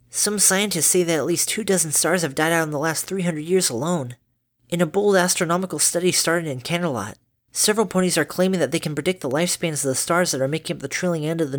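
a touch of a studious filly; polite daughter voice. Acted. Dinky voiced.

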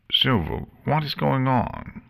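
high-pitched puzzled question; ask, at a loss; confused. A narrator's reading.

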